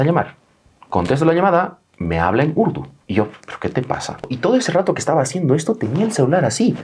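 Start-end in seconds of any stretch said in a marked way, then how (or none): 3.5-4.2 susurrado, sin voz, desconcertado; susurro incrédulo. Retold or imitated. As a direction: sopla la pregunta sin voz, perplejo. Confundido por la llamada en urdu. (susurro incrédulo al conductor)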